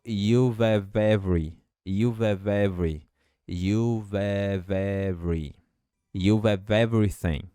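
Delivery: "You've have every" with the V run into the E; linked V. Shown as a demonstration. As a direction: join the V straight into the E of "every". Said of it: "Esse V vai juntar com um E". (V de "you've" ligado ao E, fala conectada)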